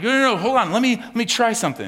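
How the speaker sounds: high, loud, eager to fix it; hammed-up eager churchgoer; eager pleading. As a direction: jump in keenly to win them over. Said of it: "You're like".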